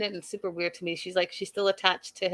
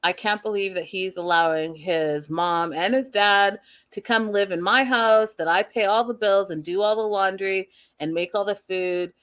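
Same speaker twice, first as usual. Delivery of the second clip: imagined inner rage. Retold or imitated. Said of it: "She's like".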